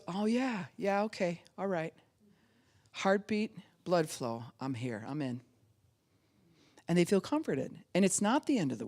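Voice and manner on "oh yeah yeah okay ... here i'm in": soothed sigh. Retold or imitated. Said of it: "the baby goes".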